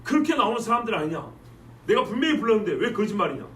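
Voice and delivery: mildly heated accusing challenge; sharp retort. Acted. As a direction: throw the accusation back at them. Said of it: "이렇게 이제 입다가 쏘아붙였습니다". (살짝 격하게 쏘아붙이는 말투)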